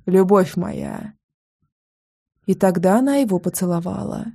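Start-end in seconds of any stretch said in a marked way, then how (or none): 0.1-1.1 very slow, tender endearment. Acted. Selena returns the heart tenderly.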